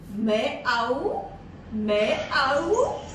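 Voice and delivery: cat talking. Acted. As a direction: meow lightly turned into words, rising at the end. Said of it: "What does the cat say?".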